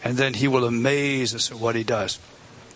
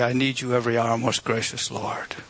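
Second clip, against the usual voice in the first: tender hymn words; 4 semitones lower than usual. Acted. Quotes a hymn he loves.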